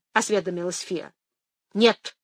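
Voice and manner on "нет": curt snap. Acted. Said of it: "отрезала Джастина".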